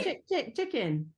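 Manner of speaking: playful chicken cluck to buzz in; chicken buzzer. Pretend. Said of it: "her chosen buzzer noise".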